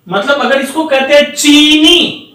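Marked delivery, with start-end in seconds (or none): 1.3-2.2 चीनी with the weight leaning on नी; stressed demo. Shown as a demonstration. Teacher repeats the long ई example: firm, stressed चीनी. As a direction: give चीनी a firm push. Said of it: "जोर देते हैं".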